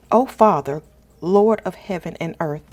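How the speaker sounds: usual speaking voice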